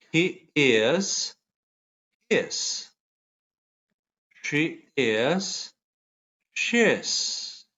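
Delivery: each pair read slowly for repeating; pronunciation drill. Shown as a demonstration. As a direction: model the sound, then pause for the class. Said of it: "¿Sí practicaron la pronunciación?".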